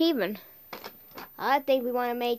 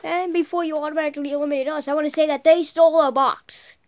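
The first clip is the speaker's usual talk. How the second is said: indignant protest; 6 dB louder, faster than usual. Real, not acted. Protesting before being eliminated.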